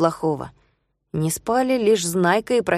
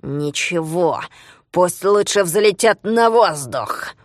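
Sprouts grumbling; much slower than usual. Acted. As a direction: drag out a spiteful grumble. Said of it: "проворчала другая голова голосом Спруца".

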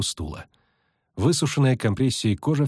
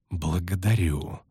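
mocking thanks; 2 semitones lower, slower than usual. Mocking thanks, with sneering smile.

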